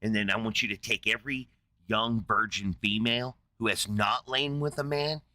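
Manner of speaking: low, menacing mock rage; furious Moses. Moses grabbing his general, low hinted fury. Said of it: "fucking furious".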